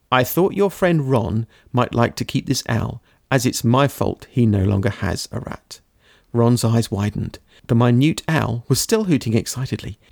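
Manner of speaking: steady read-aloud storytelling voice; story narration. A narrator's reading. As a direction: read the ending like an audiobook. Reads book ending aloud.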